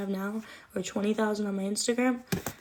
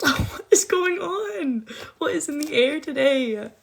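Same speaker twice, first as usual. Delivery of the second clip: excited; 6 semitones higher, 6 dB louder, slower than usual. Real, not acted. Surprised by gifts on live.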